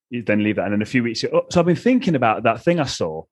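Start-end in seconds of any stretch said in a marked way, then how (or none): 1.3-3.2 higher, lilting mock-offhand quote; faux-casual suggestion. Partner slipping a kink back into conversation, faux-casual. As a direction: bring it up as if it just occurred to you.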